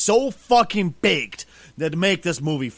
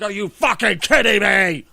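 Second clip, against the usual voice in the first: retold exasperation; 3 semitones higher, 7 dB louder than usual. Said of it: "I was like".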